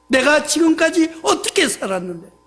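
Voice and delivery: half-hearted mock grumble; mild complaint. Believer grumbles at God, mildly aggrieved. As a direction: stress on 어떻게, a touch of grievance. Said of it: "하면서 불만, 불평".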